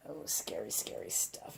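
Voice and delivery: dropping to a hushed, spooky whisper; a hammed-up hush of fake fear; mock scared whisper. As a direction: play at being scared, half joking. Mock dread over a painting decision.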